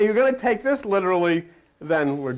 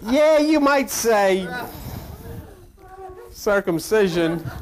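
slow drawn-out God; 2 semitones higher, much slower than usual. Acted. God's slow reply.

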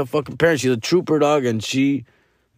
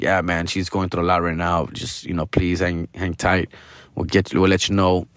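a lower, gentler nurse reassuring the worried family; caring; 7 semitones lower than usual. Retold or imitated. Nurse comforting the family in the waiting room, caring and calm. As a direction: soothe them, lightly voiced nurse. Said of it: "caring, like".

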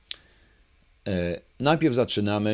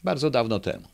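ordinary talk, nothing marked

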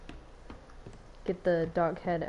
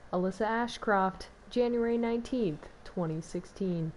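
news reporter voice. Pretend. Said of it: "my true reporter voice".

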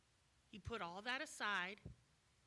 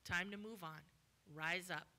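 low, clipped lines; blunt dismissal; 5 semitones lower than usual. Acted. Jesus ending the man's old story, low and firm. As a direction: close the matter flatly. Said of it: "He's like".

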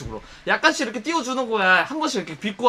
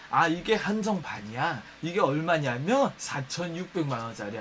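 low, slow, self-satisfied boast; bragging customer; 6 semitones lower, 7 dB quieter, slower than usual. Retold or imitated. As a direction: lean back and name the price proudly. Customer bragging about price.

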